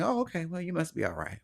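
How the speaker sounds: high breezy oh okay, then dropping soft; mock relieved brush-off. People brushing off his sadness, breezy high mock relief. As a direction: imitate someone happy to move on.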